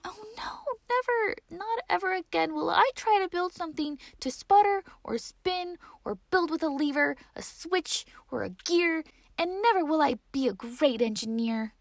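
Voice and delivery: put-on high, fast, tearful wail of a child; despairing cry. A narrator's reading. Rosie, ashamed after the crash, vows to quit in a tearful wail. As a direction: sob out the vow never to try again.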